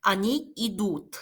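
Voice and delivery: very slow, careful Он или она идёт; slow demo. Shown as a demonstration. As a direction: spell out Он или она идёт slowly for learners. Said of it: "teacher demonstrating conjugation". (학생들에게 또박또박 천천히 시범)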